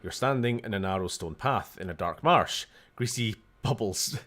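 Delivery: reading room text aloud, storyteller; game narration. Acted. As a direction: narrate the scene like an adventure game. Reads text adventure aloud.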